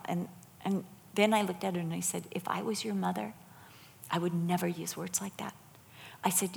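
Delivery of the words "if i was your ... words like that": softly, with a pause before the point; retold tender correction, kept soft; gentle motherly reproof. Retelling a word to a teenage girl, gentle motherly reproof.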